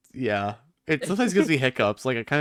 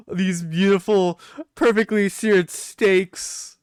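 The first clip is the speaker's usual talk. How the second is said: savoring; 4 semitones higher, slower than usual. Acted. Savouring the imagined steaks.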